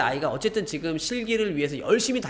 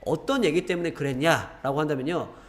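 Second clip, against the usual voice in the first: normal talking voice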